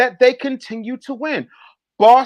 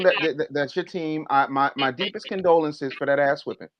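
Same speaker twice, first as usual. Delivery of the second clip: mock condolences; 9 semitones lower, 7 dB quieter, faster than usual. Mock condolences to Boston fan.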